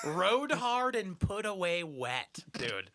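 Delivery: high, slow, laughing mock rant; hammed-up dad scolding, drawn out; mock outraged dad. Dad scolding his young son, slow and high. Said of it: "And I'm like".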